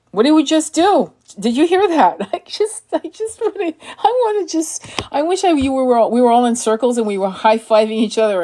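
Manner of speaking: can barely contain the thrill; breathless high excitement; ecstatic. Real, not acted. Stunned by the card drawn.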